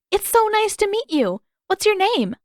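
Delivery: high, loud eager welcome; gushing. Acted. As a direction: greet him with eager delight. Katara greeting the earthbender eagerly.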